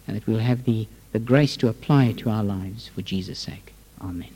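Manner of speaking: hushed, reverent prayer voice. Acted. Opening prayer before the sermon.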